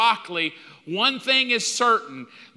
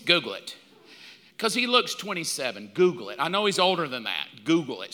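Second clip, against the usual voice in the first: insistent; 5 semitones lower, 3 dB quieter, faster than usual. Retold or imitated. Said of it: "Google how old Tom Cruise is".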